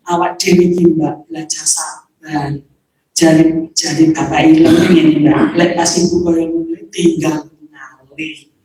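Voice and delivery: lightly voiced patient pleading; calm advice. Calming the angry sister.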